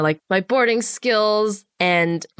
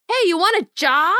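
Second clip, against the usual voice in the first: casual boss; 10 semitones higher than usual. Retold or imitated. Voicing the line producer.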